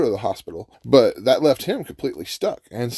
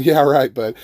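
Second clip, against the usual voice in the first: imitated scoff, starting louder; amused disbelief; 6 dB louder than usual. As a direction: play a driver chuckling off the offer. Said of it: "he's just kinda chuckling".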